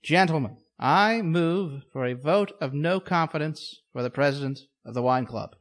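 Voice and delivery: loud, formal club chairman address; rally the members to oust him; pompous chairman speech. Acted. Mock club meeting speech.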